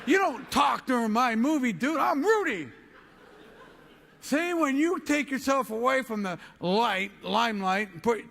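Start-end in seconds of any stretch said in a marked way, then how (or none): 0.1-2.7 mock angry yell. Pretending to yell at the man whispering in his movie, mock angry. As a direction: play the puffed-up big shot, yelling.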